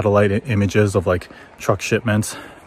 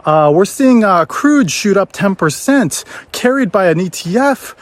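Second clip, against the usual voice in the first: higher, mock TV-anchor read; news anchor; 7 semitones higher than usual. TV news reporting the oil spike, mock anchor voice. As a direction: announce it like a cable news host. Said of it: "All the T Vs suddenly go".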